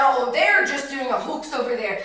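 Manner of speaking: slow, loud mock skeptic; loud denial. Preacher voicing doubters of healing, loud mock denial. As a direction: scoff loudly, drawing the words out. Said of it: "then there would be".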